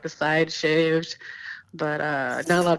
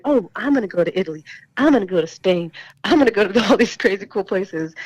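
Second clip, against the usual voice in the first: retold excitement, building louder into a laugh; stoked; 4 dB louder than usual. Guest retelling her reaction to the tour invitation, stoked. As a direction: recall being stoked, quick at first then louder. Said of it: "I was stoked".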